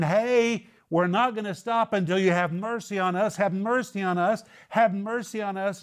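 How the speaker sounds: high, insistent repeated cry; half-yell it like someone refusing to stop; mock screaming plea. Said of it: "yelling and screaming".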